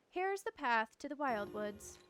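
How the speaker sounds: put-on British accent, lightly theatrical; affected British adventurer. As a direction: narrate the quest in a mock British accent. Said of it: "I need to stop with that accent".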